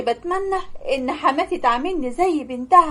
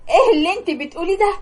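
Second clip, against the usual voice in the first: shocked disbelief; 4 semitones higher, faster than usual. Acted. Shock at father's death.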